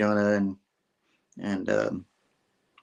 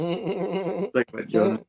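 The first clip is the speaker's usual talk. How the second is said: put-on higher childish retort; rude kid voice; 8 semitones higher, 3 dB quieter, much slower than usual. Daughter mocking Jonah at dinner, high childish jab. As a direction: snap back like a cheeky kid. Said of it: "She's like".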